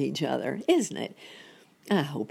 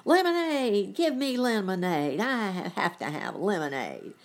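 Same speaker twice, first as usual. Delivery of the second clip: demanding cry; 5 semitones higher than usual. A narrator's reading. Bad Tiddlywink leaping from the lake, demanding cry.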